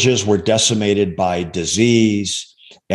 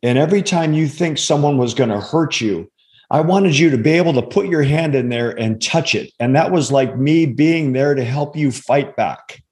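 raised, earnest little boy's voice, lightly acted; a hint of a hurt child explaining; voicing his tearful son; 3 semitones higher than usual. Father retelling his son's tearful explanation, lightly raised child voice. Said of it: "And he said".

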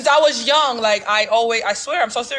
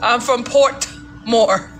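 mock Jamaican claim; 3 semitones lower, much slower than usual. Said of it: "Yeah, Puerto Rico".

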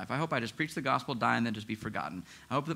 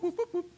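highlighter sound effect. Retold or imitated. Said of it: "just go whoop".

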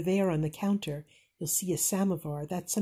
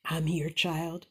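soft; 3 dB quieter than usual. Acted. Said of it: "Grandma said softly from the doorway".

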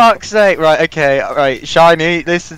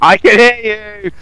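mock menacing; 7 semitones higher, 4 dB louder, slower than usual. Overheard plotting, mock menace.

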